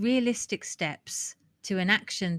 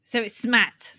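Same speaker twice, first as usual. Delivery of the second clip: louder, higher, amused punchline; laughing; 4 semitones higher, 6 dB louder than usual. Real, not acted. Co-host jokes about the forgotten R, laughing. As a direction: land the silly acronym through a laugh.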